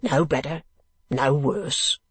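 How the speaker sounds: gruff, matter-of-fact reply. Acted. Man below wall humouring old gentleman, lightly gruff. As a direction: answer gruffly and plainly. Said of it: "replied a gruff voice".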